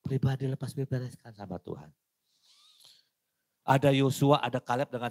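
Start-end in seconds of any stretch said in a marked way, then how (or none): none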